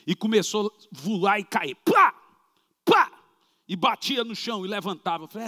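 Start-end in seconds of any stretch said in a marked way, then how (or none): 1.8-3.1 loud slapping thud imitated; sharp mock thud of a body hitting the floor; smack sound. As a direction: spit out a sharp smack noise. Impact of body hitting ground.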